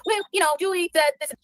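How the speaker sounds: a light put-on voice for Nonsense; mimicking Nonsense. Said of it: "Nonsense went on and said".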